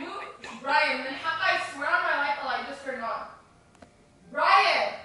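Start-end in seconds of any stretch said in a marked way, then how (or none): 0.0-3.3 hushed scared whisper; nervous night vlog whisper. Real, not acted. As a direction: whisper it so nobody hears.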